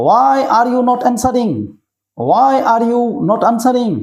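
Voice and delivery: very slow, every word drawn out for learners; drawn-out classroom model; slow teaching repeat. Shown as a demonstration. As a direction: spell it out slowly so children can follow. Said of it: "repeats slowly for learners".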